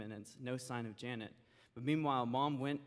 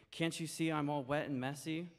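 crossly; 3 semitones higher than usual. Acted. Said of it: "very crossly".

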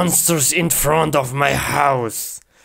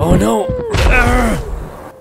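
alarmed cry; 8 semitones higher, slower than usual. Acted. Alarm at danger.

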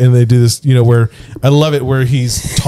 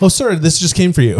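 higher-pitched, lightly mocked eager assistant; kiss-ass assistant; 5 semitones higher than usual. Assistant handing something to his boss, fawning imitation. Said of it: "kiss ass".

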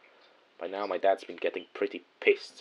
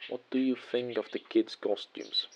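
mildly cheerful, slower higher-pitched question; a touch of cheer, pitched up; 4 semitones higher, 4 dB quieter than usual. Acted. Dad greets uncle about the kids' costumes, cheerfully. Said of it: "he says cheerfully".

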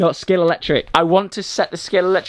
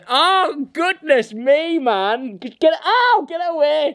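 high flustered protest; 11 semitones higher, slower than usual. Real, not acted. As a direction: fend off the jumping dog. Dog jumping on him.

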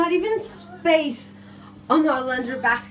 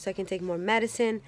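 whispering; 5 semitones lower, 10 dB quieter than usual. Real, not acted. Baby napping nearby.

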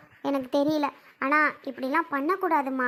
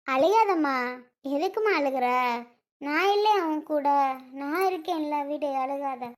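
gentle consoling; 3 semitones lower than usual. Acted. Elder comforts a crying young woman, gently soothing. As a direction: comfort her tenderly, easing off at the end.

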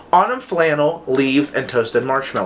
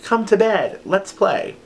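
much higher put-on little voice; imitated pleading pet; 7 semitones higher, slower than usual. Shantae begging dad to play, in a high imitated voice. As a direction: coax like a pet wanting attention. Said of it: "Shantae is literally eyeing me up".

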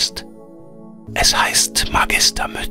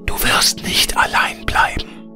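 air spirit whispering. A narrator's reading. Air spirit bids Veronika farewell, in a whisper. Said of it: "sagte der Luftgeist".

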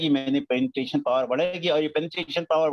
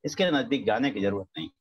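frightened spirit; 4 semitones lower than usual. Retold or imitated. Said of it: "अनात्मा कहेगा".

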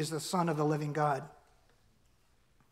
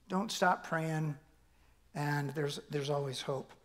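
gentle encouragement; 3 semitones lower, 6 dB quieter, slower than usual. Real, not acted. Pastor encouraging the congregation.

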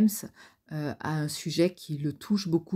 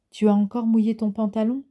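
higher and louder mocking jeer; sneering; 6 semitones higher, 6 dB louder than usual. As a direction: taunt the kid with a sneer. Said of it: "ricana Ron".

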